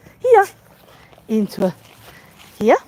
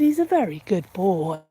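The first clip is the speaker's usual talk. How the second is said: calm praise; 2 semitones lower than usual. Real, not acted. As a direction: soothe him so he stays put. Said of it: "tell him in a nice, calm voice".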